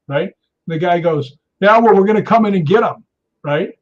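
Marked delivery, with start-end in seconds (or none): 1.6-3.0 loud, higher-pitched mock bluster; retold threat. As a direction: imitate a man threatening to barge in. Acted threat at gate.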